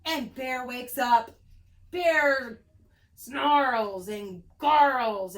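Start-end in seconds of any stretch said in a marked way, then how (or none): 1.9-5.4 loud slow growling narration; snarling read. A narrator's reading. Reading to kids, growling as angry bear. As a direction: snarl the words slowly.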